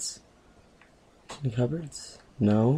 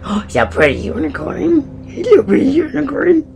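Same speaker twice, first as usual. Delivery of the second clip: put-on very high, babyish squeal voice; cutesy cooing; 14 semitones higher than usual. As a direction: coo at a toy in a silly high voice. Cooing at a toy unicorn.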